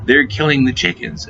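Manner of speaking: a touch of alarm, half-hearted; urgent wake-up warning. Retold or imitated. Girlfriend wakes him up, mild urgent warning. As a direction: imitate her shaking him awake. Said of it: "by shaking me and going".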